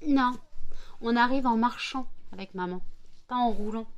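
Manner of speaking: plus fort, grondant gentiment; gronderie amusée. Real, not acted. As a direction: gronde le chien sans vraie colère. Gronde le chien qui roule. (gronde gentiment Melba)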